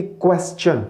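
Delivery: "क्वेश्चन" said kwes-chun; careful teacher's "क्वेश्चन", kwes-chun; correct pronunciation. Shown as a demonstration. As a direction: model "क्वेश्चन" with a clear s before the ch. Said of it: "इसको हम लोगों ने कहना है".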